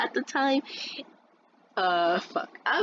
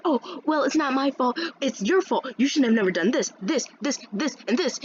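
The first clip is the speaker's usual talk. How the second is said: mimicked scolding; 5 semitones higher than usual. Teacher blaming pupil, acted.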